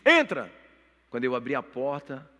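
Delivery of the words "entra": short, loud, high command; imitated father's shouted invitation; father calling out. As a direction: call someone in through a closed door. Father calls him in.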